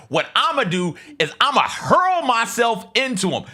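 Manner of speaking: hammed-up yell, imitating the player; mock shout. Podcaster mimicking a player's foul plan, mock shout. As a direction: bellow the plan like a brash player. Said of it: "And Jemai's like".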